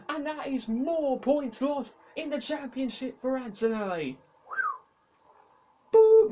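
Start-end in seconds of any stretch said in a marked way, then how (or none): 5.9-6.3 loud exasperated boo; frustrated boo. Real, not acted. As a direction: boo the contact. Hit again.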